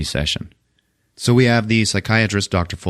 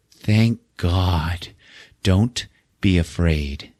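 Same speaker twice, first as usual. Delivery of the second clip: put-on spooky older lady; much slower than usual. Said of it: "older blonde lady, and she's like".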